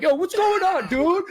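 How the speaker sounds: very high, loud streamer yell; loud hype shout. Retold or imitated. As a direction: blast the greeting at the top of your lungs. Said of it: "exactly how Lakari sounds".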